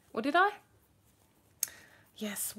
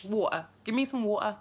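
grimy, lower-class English "water"; lower-class English accent. Shown as a demonstration. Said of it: "a bit more lower class".

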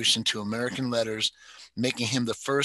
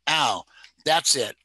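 mild mock scolding, louder, as to a naughty child; scolding shout; 3 semitones higher, 4 dB louder, slower than usual. Woman scolds her dog after it bites, a mild shout. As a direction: scold the biting dog like a wayward kid. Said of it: "Idabel shouted as if she were talking to a wayward child".

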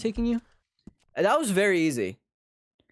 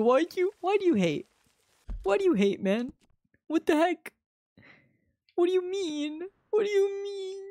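squeaky voice. Pretend. Squeaky reaction to chat.

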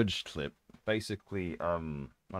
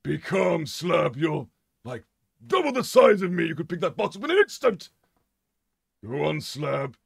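higher, patronising coaxing; coaxing character; 7 semitones higher than usual. Pretend. Character coaxing Slab to lift the box. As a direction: coax the big lug along.

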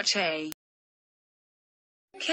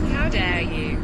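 loud, offended how dare you; angry shout; 3 semitones lower, 5 dB louder than usual. Acted. Offended figure yelling at the user, loud how dare you.

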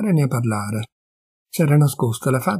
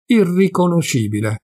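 Irriconoscibile spelled out syllable by syllable, higher; 5 semitones higher than usual. A narrator's reading. Mario, stunned by Agata's state, spelling out Irriconoscibile. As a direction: break Irriconoscibile into separate syllables, half to himself. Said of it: "sillabò Mario quasi tra sé".

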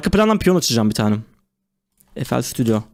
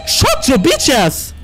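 slow, high, drawn-out taunt; hammed-up slow English taunt; mock tough voice; 10 semitones higher, much slower than usual. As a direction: drag it out like a meme insult. Mocking insult at game animatronic.

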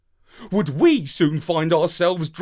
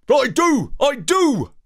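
high, loud eager yap; enthusiastic woof; 11 semitones higher, 6 dB louder than usual. A narrator's reading. Dog answering the parrot, loud and eager. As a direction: bark it out gladly like a keen pup. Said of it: "I woofed enthusiastically".

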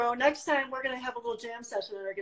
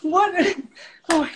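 surprised; 6 semitones higher, 10 dB louder than usual. Real, not acted. Reacts to partner's fast set.

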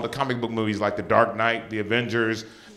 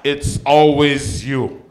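mom voice; 3 semitones higher than usual. Retold or imitated. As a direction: tease him like a tipsy mother. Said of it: "She goes".

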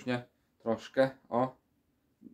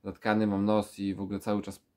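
talking with a blocked nose; stuffy, congested nose voice. Real, not acted. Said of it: "jak słychać po moim nosie".

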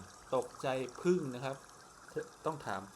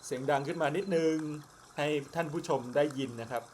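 speaking up; 2 semitones higher, 6 dB louder than usual. Real, not acted.

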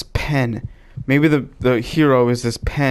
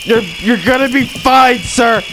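tag; 8 semitones higher than usual. Pretend. Panicked surgeon reassuring game patient.

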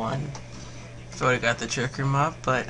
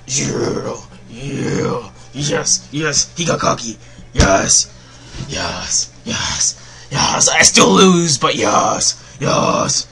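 excited cheering; 5 dB louder, much slower than usual. Real, not acted. Still celebrating.

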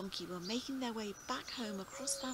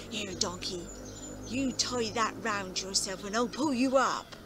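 calling down; 7 dB louder than usual. Acted. Farmer calling down the well.

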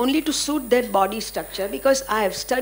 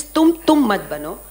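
repeating the maxim a bit louder, rising at the end; Guru's teaching; 6 dB louder than usual. Retold or imitated. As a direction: repeat the teacher's words, firm but lighter. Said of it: "He taught me this".

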